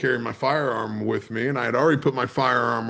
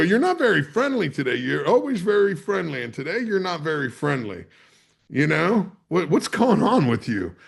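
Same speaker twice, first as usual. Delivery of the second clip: snippy; 3 semitones higher than usual. Retold or imitated. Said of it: "I'm getting a little snippy with her".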